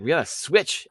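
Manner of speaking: high, loud, heated mock demand; angry retelling. Friend retelling a teen demanding another album, angrily. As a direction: snap it out as an angry order. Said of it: "She's so fucking angry".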